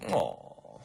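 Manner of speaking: falling, loud disappointed groan; dejected. Acted. Assassin turned away by sign, hammed-up dejected "aw". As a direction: let the sound sag in mock disappointment.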